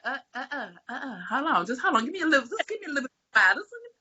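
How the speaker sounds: a hint of God begging her to wait; God pleading. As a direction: hurry to stop her, voice climbing. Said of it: "And God was like".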